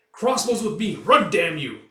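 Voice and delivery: loud, high urgent command; officer shouting orders; barked order. Acted. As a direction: hurry the men along.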